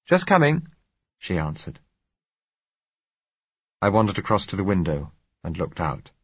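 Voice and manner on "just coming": high, loud woman's reply; raised, high-pitched call; calling back. Acted. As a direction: sing out an answer from the next room. Answers a call from another room.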